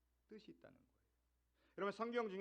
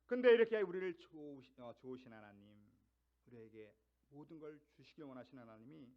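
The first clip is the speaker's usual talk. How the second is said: ordinary talk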